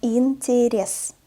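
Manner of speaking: "Интерес" stretched out syllable by syllable; slow reading. Shown as a demonstration. Teacher models the word for beginners, "Интерес" read slowly. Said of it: "I will read this word slowly".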